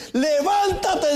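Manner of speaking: slow, high stretched command; preached call. Acted. God calls the tired worker, slow and high. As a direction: draw it out high.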